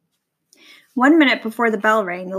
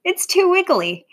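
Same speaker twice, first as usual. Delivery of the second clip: giggling; 8 semitones higher, 3 dB louder than usual. Acted. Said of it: "she said with a giggle".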